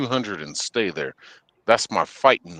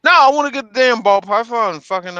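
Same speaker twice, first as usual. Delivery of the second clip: excited; 13 semitones higher, 8 dB louder, faster than usual. Real, not acted. Excited rant about getting a snake.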